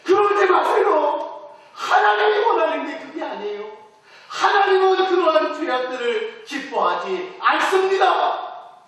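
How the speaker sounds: tearful pleading. Shown as a demonstration. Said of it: "눈물을 흘리면서 얘기해야 됩니다".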